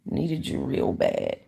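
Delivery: breathy slow whisper; whispered lyric, almost to yourself. Shown as a demonstration. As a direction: hush it right down, slowly. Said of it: "second take whispered".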